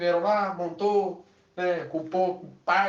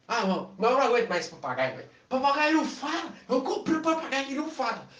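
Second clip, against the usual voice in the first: high exasperated rant; fed up, vent it; exasperated outburst; 8 semitones higher, faster than usual. Acted. Woman fed up with her mute parrot.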